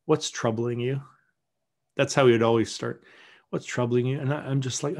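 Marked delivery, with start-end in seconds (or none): 0.1-1.0 gentle. Retold or imitated. Bishop opening confession cheek to cheek, gentle. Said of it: "he just gently says". 3.5-4.2 mildly softened question; gentle. Retold or imitated. Bishop greeting a troubled penitent at confession, gentle. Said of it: "he just gently says".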